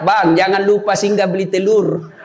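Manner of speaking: laughing wife message. Retold or imitated. Wife's WhatsApp retold with laughter.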